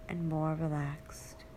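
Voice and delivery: slow breathy whisper to finish; soft spa whisper. Acted. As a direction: let the words fade into a whisper. Relaxation induction, whispered phrase end.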